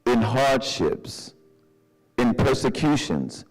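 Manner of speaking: slow, measured scripture read; solemn, deliberate reading of the verse. Acted. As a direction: lay each phrase down with weight. Reads scripture slowly.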